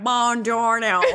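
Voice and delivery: slow, hammed-up "Buongiorno" through laughter; a laughing, badly faked Italian "Buongiorno"; bad Italian accent. Retelling a favorite movie scene in a mock Italian accent. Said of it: "He's like".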